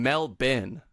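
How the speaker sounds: "Melbourne" in two slow, separate syllables, mel-BIN; over-pronounce "Melbourne" as Mel-bin. Shown as a demonstration. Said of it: "it just sounds like you're saying".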